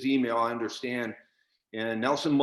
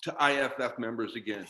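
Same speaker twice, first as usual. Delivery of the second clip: real upset anger; 3 semitones higher than usual. Real, not acted. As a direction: demand answers from the president, voice climbing. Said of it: "I'm sorry I'm so upset".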